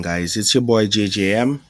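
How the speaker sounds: ordinary talk, nothing marked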